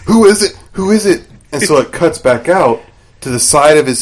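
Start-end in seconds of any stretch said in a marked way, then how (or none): 0.1-1.3 higher-pitched, eager questioning; glued in suspense. Retold or imitated. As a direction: re-enact an impatient viewer on the edge of their seat. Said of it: "I was glued. I was like".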